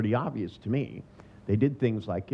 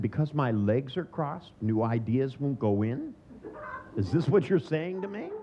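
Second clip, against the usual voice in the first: mock incredulity; 2 semitones higher than usual. Mocking the psychologist's claim.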